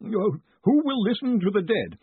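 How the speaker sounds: high-pitched, solemn recital; reading a grave message. A narrator's reading. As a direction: declaim the words of the dead through a nervous reader's voice. Collarbone reads the message aloud.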